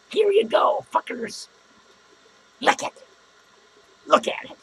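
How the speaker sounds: high, loud jeering put-on voice; mock taunt. Podcaster imagining handing rivals his brain, loud mock jeer. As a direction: shove it in their faces, jeering.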